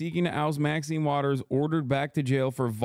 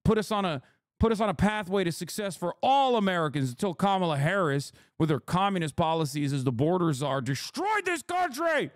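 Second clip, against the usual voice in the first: higher, hammed-up indignant pundit voice, pushing the talking points; mock Trump Republican; 4 semitones higher than usual. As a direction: play an offended Trump Republican defending the rich. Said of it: "put my fucking Trump Republican hat on".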